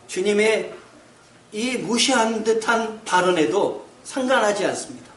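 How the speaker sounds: ordinary talk, nothing marked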